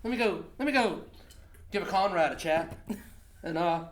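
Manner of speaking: high, loud mock Canadian border officer; Canadian accent. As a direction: excuse yourself in a hammed-up Canadian accent. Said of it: "Canadian accent".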